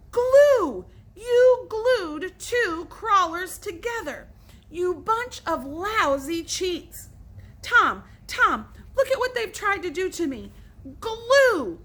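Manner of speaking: high, loud furious accusation; angry shouting. Acted. Billy furious at Alan and Joe, high loud shouting. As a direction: rage at the cheaters.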